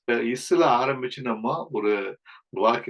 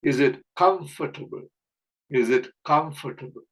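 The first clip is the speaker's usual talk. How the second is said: very slow, word by word; slow repeat-after-me; 2 semitones higher, 3 dB louder, much slower than usual. Shown as a demonstration. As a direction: model each question slowly for learners to repeat. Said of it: "பிராக்டிஸ்க்காக என் கூடவே சொல்லி பாருங்க". (மெதுவாக, சொல் சொல்லாகப் பயிற்சி)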